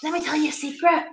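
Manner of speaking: softly confiding to the dog; secretive. Real, not acted. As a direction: lean in with a secret.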